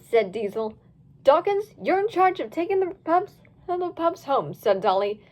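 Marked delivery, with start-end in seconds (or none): 1.2-4.5 bossy pup voice. Acted. Dolly giving orders, raised voice.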